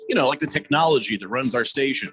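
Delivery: upbeat host-read sponsor spot; radio ad read. Acted. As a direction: sell the sponsor to listeners with punchy emphasis.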